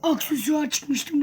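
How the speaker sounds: rough, strained hoarse voice; talking through a sore, hoarse throat. Real, not acted. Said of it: "Bu arada sesim kısık".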